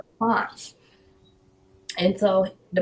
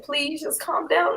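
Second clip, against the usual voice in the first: higher, slowed-down plea; retold begging; 6 semitones higher, 3 dB quieter than usual. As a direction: imitate a husband pleading for calm. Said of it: "husband was just begging me".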